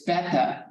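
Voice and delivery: "beta" with a short e, BEH-tah; Greek pronunciation. Retold or imitated. Greek student correcting English teacher, Greek pronunciation. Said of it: "we had a student that was Greek".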